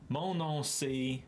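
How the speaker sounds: drawn-out colonial-accented French. Shown as a demonstration. Streamer showing viewers a phrase in colonial French accent. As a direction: put on a thick colonial French accent, slowly. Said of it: "with the most colonial accent".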